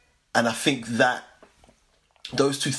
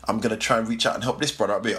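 rattled off quickly; fast repeat; faster than usual. Shown as a demonstration. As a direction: say it fast in one breath. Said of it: "repeated faster".

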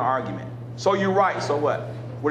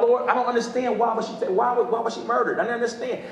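retold grieving prayer; 3 semitones higher, faster than usual. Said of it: "I told God".

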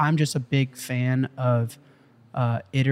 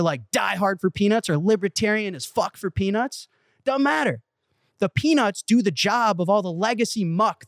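excited sales pitch; 5 semitones higher than usual. Retold or imitated. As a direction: re-enact a zealous pitch, pitched high throughout. Re-enacts climax of his pitch.

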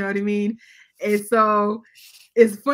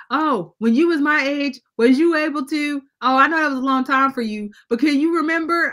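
put-on teasing kid; 6 semitones higher, 6 dB louder than usual. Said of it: "the kids will definitely let you know".

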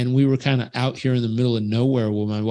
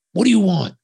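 put-on feisty old lady; 6 semitones higher, 5 dB louder than usual. Feisty lady kicks door open.

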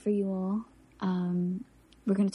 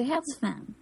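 put-on slight South Philly Italian-American accent; South Philly Italian small talk; 3 semitones higher than usual. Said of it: "they say".

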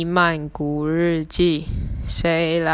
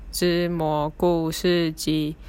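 talking while burping. Real, not acted. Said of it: "不好意思打嗝了".

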